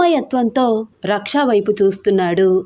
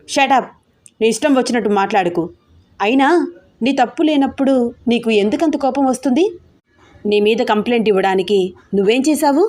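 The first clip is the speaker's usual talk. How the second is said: angry retort; 3 semitones higher than usual. Acted. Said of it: "రెండింతలు గట్టిగా మాట్లాడుతూ".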